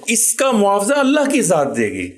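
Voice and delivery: retelling the father's moved plea, pitch rising; a touch of tearful earnest advice; emotional. Retold or imitated. Father urging his son to forgive, emotional and rising. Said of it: "جذباتی ہو کر کہتے ہیں".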